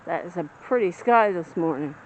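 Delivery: muffled through a shirt; talking behind cloth; through a face mask. Real, not acted. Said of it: "shirt over my face, like a little face mask".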